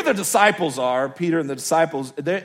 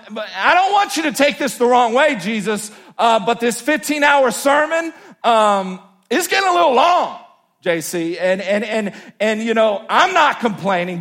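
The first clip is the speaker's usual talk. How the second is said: higher, louder, brash buddy voice; Peter talking to Jesus; 4 semitones higher, 3 dB louder than usual. Retold or imitated. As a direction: play Peter as a cocky disciple nagging his friend.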